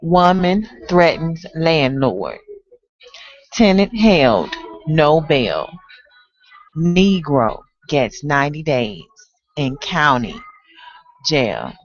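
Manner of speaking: terse poetic list with long pauses; dramatic headline recital. Acted. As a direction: read each headline as a separate, weighty announcement. Recites poem's arrest and headlines.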